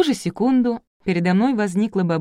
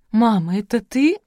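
louder, higher astonished question; gasped; 5 semitones higher, 5 dB louder than usual. A narrator's reading. Daughter not recognizing her mother, gasping in surprise. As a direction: rise in amazement. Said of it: "незнакомая мне женщина ахнула".

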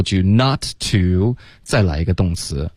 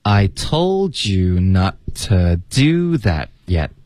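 drawn-out phrase by phrase, weight on "told" and "do"; teacher's slow, careful linked read-out; slow model reading; much slower than usual. Shown as a demonstration. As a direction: read it very slowly for repeating. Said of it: "来跟着老师读吧".

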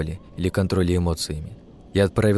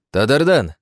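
louder, higher call across the camp; shout; 5 semitones higher, 6 dB louder than usual. A narrator's reading. Hero calls the elf boy over, shouting. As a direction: call the boy's name loudly. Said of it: "крикнул я".

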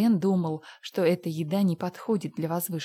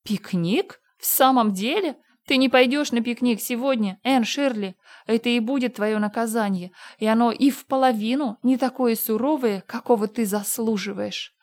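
put-on louder and higher, scolding a naughty girl; stern outrage; 5 semitones higher, 5 dB louder than usual. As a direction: cut her down hard, no picnic. Marilla refuses the picnic.

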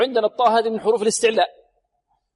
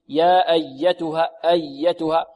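slow, with a slight press on the doubled y of "أيتها"; much slower than usual. Shown as a demonstration. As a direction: lean gently on the yy in "أيتها". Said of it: "لا بد ضغط قليل". (ضغط قليل على الياء المشددة في "أيتها")

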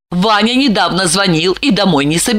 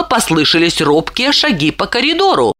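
ordinary delivery

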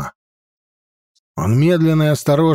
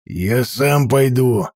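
slow words through gritted teeth; hissing whisper; slower than usual. Acted. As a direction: hiss it through clenched teeth. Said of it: "сквозь зубы прошипел Ширам".

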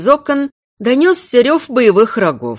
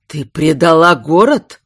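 plain reading voice

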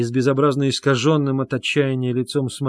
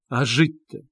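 exclaiming; 2 semitones higher, 5 dB louder, slower than usual. A narrator's reading. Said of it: "восклицала Соня".

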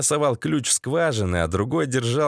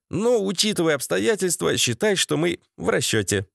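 higher-pitched, polite needling; lighter-pitched sardonic civility; prim menace; 4 semitones higher than usual. Acted. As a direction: deliver the threat with fussy courtesy. Valera sardonically threatens Vovan.

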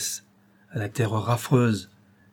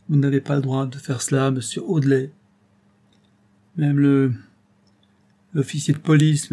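gravely, louder reproach; old man rebuking Robert with wounded dignity; 3 semitones higher, 3 dB louder than usual. Acted. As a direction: stand tall and rebuke him. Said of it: "Il dit gravement".

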